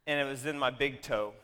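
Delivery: usual speaking voice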